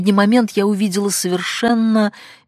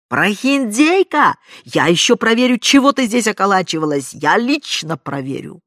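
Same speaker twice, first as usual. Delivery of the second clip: gleeful shriek; 5 semitones higher, 6 dB louder than usual. A narrator's reading. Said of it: "ликующий и визгливый".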